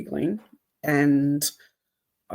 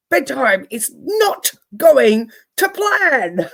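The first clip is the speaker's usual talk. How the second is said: slow, deliberate, firm and higher; firm matter-of-fact; 8 semitones higher, 7 dB louder, slower than usual. Retold or imitated. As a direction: spell it out slowly and firmly to the kids. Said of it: "probably in about that tone and that way".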